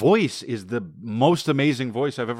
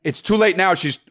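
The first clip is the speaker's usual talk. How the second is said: heated insistence; 6 semitones higher than usual. Real, not acted. Comedian arguing with his co-host, high insistent push. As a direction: insist with rising passion. Heated argument about her voice.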